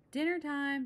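high, loud call down the house. Acted. Mama calling the cubs to dinner, high and loud. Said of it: "she called".

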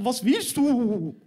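high, loud, drawn-out whine; hammed-up sulky yell, stretched out; pretend sulking anger. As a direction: play an offended kid wailing at mum. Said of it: "als wär ich sauer auf sie".

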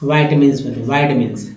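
वाइटमिन्स with a long vye at the start; vye-tuh-mins way. Shown as a demonstration. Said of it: "कुछ लोग जो इसे".

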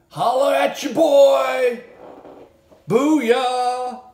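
high, loud mock victory holler; a hammed-up imitation of a victory whoop, high and loud. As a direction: yell it like a gambler who just won. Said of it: "And then you're yelling".

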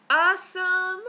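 bursting with excitement; excited. Real, not acted. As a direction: shout it with glee. Excited about Disneyland trip.

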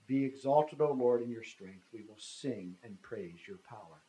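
emphatic Bible verse read aloud; scripture reading. Acted. Preacher reading a psalm to listeners, solemn declamation.

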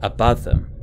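ordinary delivery, nothing marked

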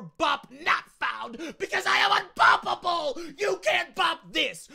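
high, loud, drawn-out boast; mock-triumphant shout. Streamer boasting to the chat, hammed-up triumphant shout. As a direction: proclaim it big, stretching every word.

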